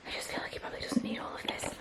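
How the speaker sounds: hushed aside, barely voiced; whisper. Real, not acted. Mother whispering a confession to viewers, under her breath. Muttering aside about son's storage.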